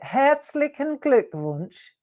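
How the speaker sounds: "Herzlichen Glückwunsch" said slowly, syllable by syllable; slow pronunciation demo. Shown as a demonstration. Teacher slowly models German for the viewers. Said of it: "Go on, say it".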